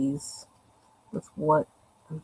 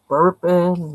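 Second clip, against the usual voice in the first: normal talking voice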